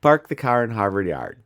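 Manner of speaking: Midwestern accent with every R sounded. Shown as a demonstration. Midwesterner repeating a test phrase on request, Midwestern accent. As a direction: show off a Midwestern accent, hard R's. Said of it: "that is my Midwestern accent".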